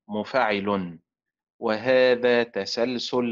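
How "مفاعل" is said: مفاعل with a falling close, beat on the last part; fourth stress pattern. Shown as a demonstration. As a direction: finish the four readings of مفاعل. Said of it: "وتنطق بأربع طرق، هكذا".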